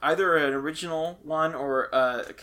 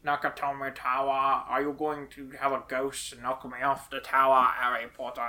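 Alan Rickman impression; 3 semitones lower than usual. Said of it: "You're doing a really good Alan Rickman".

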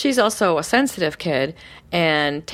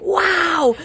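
high bursting mock whoop; excited whoop; 12 semitones higher, 4 dB louder than usual. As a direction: throw it out like a bouncing kid. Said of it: "his energy was like".

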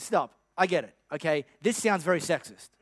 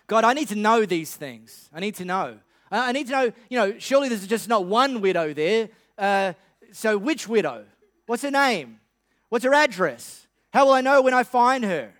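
mock Elijah. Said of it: "What if he didn't".

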